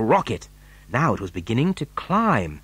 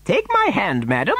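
higher, courteous offer; gallant; 6 semitones higher than usual. A narrator's reading. Wonka helping a fallen lady, gallantly. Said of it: "said Mister Wonka gallantly".

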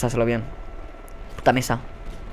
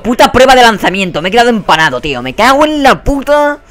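loud, raised-pitch gamer outburst; real exasperated outburst; exasperated cursing; 7 semitones higher, 4 dB louder than usual. Real, not acted. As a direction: curse in real frustration, stretching the end. Frustrated gamer cursing a failed challenge.

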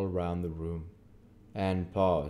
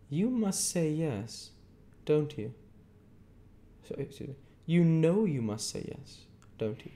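stern lawyer Jaggers; 10 semitones higher, 3 dB louder than usual. A narrator's reading. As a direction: hold the witness with a hard stare. Jaggers pressing Pip.

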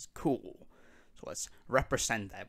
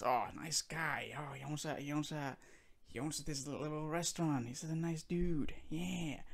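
honeyed voice; 4 semitones higher, 7 dB quieter than usual. Retold or imitated. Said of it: "keep the smooth, buttery voice".

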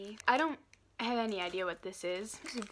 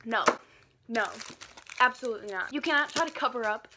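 grimacing while speaking; pulling a disgusted face; 4 dB louder, faster than usual. Real, not acted. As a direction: mouth stretched in disgust. Seen 4: No chewing seen; the mouth is wide open in a disgusted grimace.

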